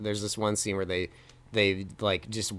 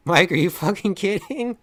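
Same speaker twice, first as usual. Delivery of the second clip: rising, louder demand; mock angry demand; 8 semitones higher, 8 dB louder than usual. The others demanding answers from Mike, mounting anger. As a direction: press harder each time, building anger. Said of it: "they even asked that".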